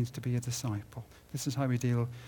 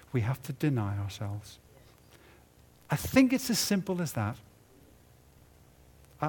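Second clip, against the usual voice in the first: normal talking voice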